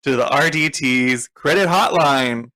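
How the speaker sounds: lightly hammed-up hotline ad read; ad announcer. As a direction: pitch it like a cheesy commercial. Mock credit hotline ad.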